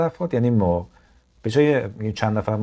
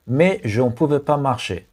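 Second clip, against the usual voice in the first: slow, careful French read for learners; slow dictation; 3 semitones higher, much slower than usual. Shown as a demonstration. Teacher reading to learners, slow careful read. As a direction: spell it out slowly for the class. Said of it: "teacher reads French sentence slowly".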